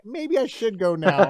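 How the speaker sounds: hammed-up second thoughts, stretched out; reenacted hesitation. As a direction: draw out the reluctant goodbye. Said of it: "I'll be like".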